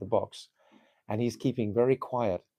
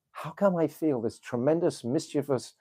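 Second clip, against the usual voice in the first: mischievous delight; 3 semitones higher, 3 dB louder than usual. Acted. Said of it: "She's feeling this ecstatic, um, mischiefness".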